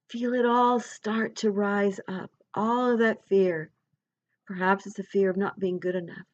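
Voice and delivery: unhurried meditation voice with long pauses; guided visualization. Real, not acted. Guide leading listeners to let go of fear, guided visualization. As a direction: guide them gently inward, phrase by phrase.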